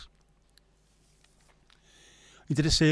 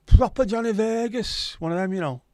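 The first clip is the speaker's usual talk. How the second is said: put-on Johnny Vegas St Helens accent; 9 semitones higher, 8 dB louder than usual. Asked what accent he'd have, a broad St Helens accent. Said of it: "What accent would he have?".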